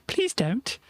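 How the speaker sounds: high-pitched mock plea; retold plea. Crook begs her not to scream, high-pitched plea. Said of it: "And then he goes".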